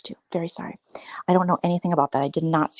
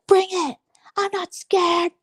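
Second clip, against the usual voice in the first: mock bravado; 12 semitones higher, slower than usual. Mocking women taunting.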